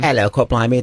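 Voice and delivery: hammy mock-Cockney greeting; American attempting Cockney, badly; bad Cockney accent. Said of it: "doing a bad Cockney accent".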